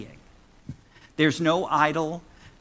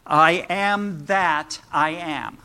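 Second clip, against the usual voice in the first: "I am that I am" drawn out slowly, weight on "am" and "that"; slow, separated words, leaning on "am that"; deliberate reworded emphasis; slower than usual. Shown as a demonstration. Preacher unpacks a spiritual puzzle, slowly weighting "am" and "that". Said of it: "Those are all different ways of looking at".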